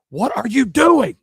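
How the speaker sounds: put-on high, slow shocked old-lady voice; startled old lady. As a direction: squeak it out like a scandalized grandma.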